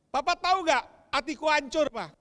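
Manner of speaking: high, loud heartbroken plea to dad; hurt daughter crying out. Retold or imitated. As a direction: let the broken heart burst out. Daughter pours out her hurt. (anak perempuan berseru dengan hati hancur)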